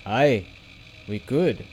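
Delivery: lightly cheered, smiling agreement. A narrator's reading. Hugo agrees with his friend, cheered and smiling. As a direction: agree with a touch of a smile. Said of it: "Hugo agreed, smiling and cheered by that".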